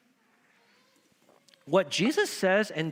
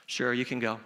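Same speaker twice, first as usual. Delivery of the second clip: low, sighing "sure, you can go"; grudging yes, softly; reluctant permission; 5 semitones lower, 4 dB quieter than usual. Retold or imitated. Wife granting leave with a sigh, grudgingly.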